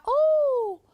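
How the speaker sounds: grumbling partner. Retold or imitated. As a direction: sour man complaining about a chore. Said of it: "il va faire".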